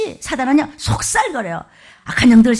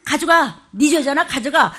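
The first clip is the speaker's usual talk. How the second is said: mock command; 4 semitones higher, 4 dB louder than usual. Shown as a demonstration. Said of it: "가져가라 그러세요".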